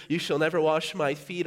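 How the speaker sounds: stubborn no, thrown out loud; loud refusal. Retold or imitated. Preacher voicing Peter refusing Jesus, loud. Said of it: "Are we with Peter?".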